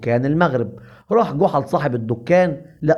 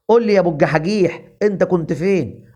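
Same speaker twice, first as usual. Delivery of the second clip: rapid, raised scolding; fast angry demand; 4 semitones higher, faster than usual. Acted. The shop owner hurrying Goha to answer, fast and angry. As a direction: rattle it off, fed up. Boss pressing silent Goha.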